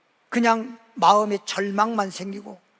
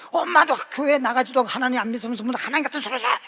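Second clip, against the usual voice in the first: retorting daughter; 4 semitones higher, 5 dB louder, faster than usual. Retold or imitated. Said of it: "딸이 한 얘기가".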